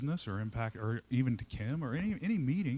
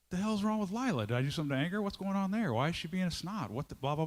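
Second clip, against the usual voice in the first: indignant inner voice; 5 semitones higher, faster than usual. Retold or imitated. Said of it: "Guess what starts in my head?".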